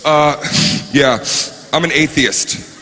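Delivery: mildly superior, halting reply; condescending. Retold or imitated. Atheist answering a blessing, mildly condescending. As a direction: let each pause talk down to them. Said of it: "very condescending".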